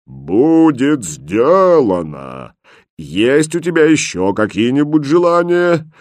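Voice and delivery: slow, far-off booming genie voice. A narrator's reading. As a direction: boom out like a mighty genie.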